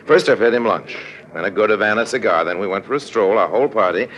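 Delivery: cool, knowing narrator voice; lightly voiced sly narrator, telling it to the audience; smug storyteller aside; story narration. A narrator's reading. Harry Lime narrates the scheme.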